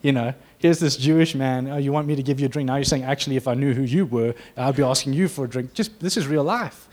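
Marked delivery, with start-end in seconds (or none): 0.0-5.7 imitating her cheeky reply, louder; sassy retort. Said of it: "she gives some attitude back".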